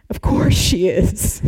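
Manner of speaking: whispered wry aside; slow, dry whispered aside. Real, not acted. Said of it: "dry aside, whispered".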